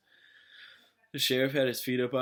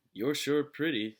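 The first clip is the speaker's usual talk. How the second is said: slow, leering drawl, louder; leering sheriff; 6 semitones higher, 6 dB louder than usual. A narrator's reading. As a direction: drawl it with a leer. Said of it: "said the sheriff".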